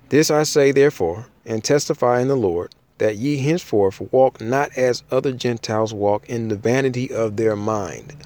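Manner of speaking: formal Bible read-aloud; scripture reading. Acted. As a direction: read the verse out to a congregation. Reads scripture aloud to listeners.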